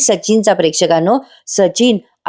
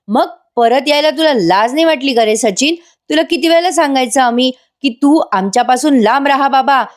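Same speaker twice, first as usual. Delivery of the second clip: angry scolding; 4 semitones higher than usual. Retold or imitated. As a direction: tell him off, high and indignant. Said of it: "खूप चिडतात". (रागाने ओरडून बोलणे)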